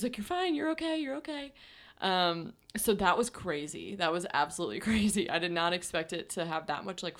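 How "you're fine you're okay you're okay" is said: calm reassurance. Retold or imitated. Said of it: "She was so calm".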